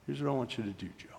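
softly confided instruction; hushed voice of Jesus guiding; imitated whisper. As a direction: speak softly and intimately. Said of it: "in a whisper".

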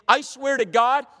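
sworn oath. Acted. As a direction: swear it forcefully, word by word. Acting Peter swearing his denial.

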